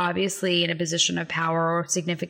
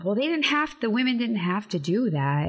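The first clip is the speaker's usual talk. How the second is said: higher-pitched voice of a doubter; quoted objector; 4 semitones higher than usual. Retold or imitated. Host quotes what people often say, lightly mimicked objection. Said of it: "often people say".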